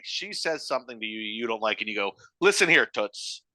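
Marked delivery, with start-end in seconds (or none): 2.4-3.4 slow, confrontational address; purposely antagonistic. Acted. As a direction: pick a fight, drawing it out. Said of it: "has to be purposely antagonistic".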